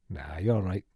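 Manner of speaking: put-on understated deadpan reply in Billy Elliot's accent; film-character accent. Quoting Billy Elliot's reply after a long pause, in accent. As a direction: answer offhand in the film's regional accent. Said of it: "'cause you're better at accents".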